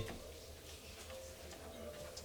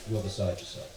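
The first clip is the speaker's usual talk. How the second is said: low, calm hint of posh English; calm him down in lightly voiced posh English; 3 semitones lower, 7 dB quieter than usual. Posh host soothing a freaking-out guest, calm posh English. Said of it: "He has that posh English accent".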